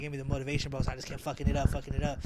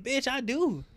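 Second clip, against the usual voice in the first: higher, louder challenge; defiant snap; 8 semitones higher, 6 dB louder, much slower than usual. Retold or imitated. Snapping back at the coworker who asked about papers, defiant and loud. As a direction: square right back.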